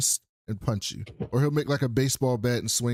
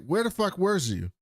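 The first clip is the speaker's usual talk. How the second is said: strong Baltimore accent slipping out; natural Baltimore twang on the words; 5 semitones higher than usual. Real, not acted. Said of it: "that accent just punched the screen".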